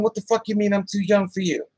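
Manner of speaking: ordinary talk, nothing marked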